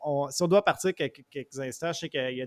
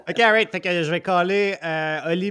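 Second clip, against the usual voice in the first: trying not to laugh; 5 semitones higher, 8 dB louder than usual. Real, not acted. Laughs after the "meeting" joke.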